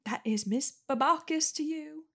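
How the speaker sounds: high, prim correcting tone; stern principal. Acted. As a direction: put the cheeky kid in his place.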